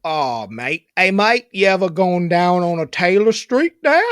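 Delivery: rough Australian accent. Shown as a demonstration. Speaker does the last request, rough Australian accent. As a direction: attempt an Aussie "mate" voice. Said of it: "the last one is Australian".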